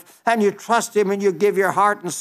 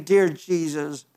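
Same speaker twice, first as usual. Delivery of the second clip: sample prayer. Pretend. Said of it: "you know him personally by saying".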